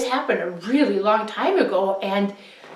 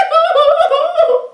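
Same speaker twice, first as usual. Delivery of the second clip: high hysterical laugh; 7 dB louder than usual. A narrator's reading. Son's panicked outburst.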